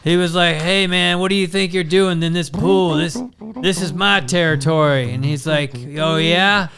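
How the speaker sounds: lightly hammed Biden reminiscing; Biden Corn Pop story. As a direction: ramble the Corn Pop tale like a folksy old pol. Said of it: "He just starts talking about corn pop".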